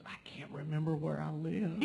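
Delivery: high-pitched, hammed-up upset old man; mock distraught. Old man answering the stranger, mock distraught. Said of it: "sitting here so distraught".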